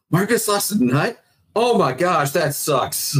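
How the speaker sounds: high-pitched incredulous outburst; acted-out stunned dismay; retold shock. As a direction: pitch jumps up in disbelief. Learns friend lost a testicle.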